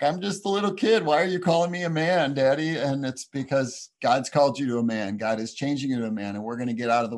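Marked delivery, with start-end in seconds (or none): 0.0-2.8 higher-pitched imitation of an awkward kid. Newly thirteen kid questioning Dad's ceremony, mock-awkward and higher. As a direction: lightly voice a kid questioning Dad. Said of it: "they're awkward and they're like".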